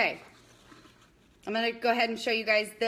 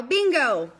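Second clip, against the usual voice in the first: a louder shouted "Bingo!"; yelled bingo; 6 dB louder than usual. Shown as a demonstration. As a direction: call out "Bingo!" for the players. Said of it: "you get to yell".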